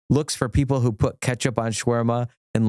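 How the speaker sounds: ordinary talk, nothing marked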